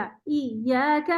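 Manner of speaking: ایاک slow, a slightly tilted a sound; slightly slanted. Shown as a demonstration. Teacher asks for a slightly slanted vowel, slowly. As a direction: tilt the a of ایاک a little. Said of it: "اور تھوڑا سا ٹیڑھا".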